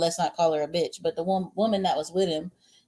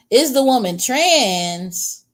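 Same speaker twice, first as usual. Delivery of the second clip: surprised; 4 semitones higher, 7 dB louder, much slower than usual. Real, not acted. Reading a surprising chat question.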